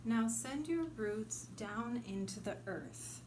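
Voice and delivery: unhurried meditation guide, long pauses between phrases; guided meditation. Acted. Guide leading listeners to send roots into earth, meditative. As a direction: guide listeners gently inward, letting each image settle.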